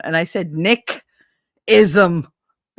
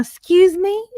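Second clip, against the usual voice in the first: indignant excuse me; 12 semitones higher, 5 dB louder than usual. Retold or imitated. Turning around on a catcaller.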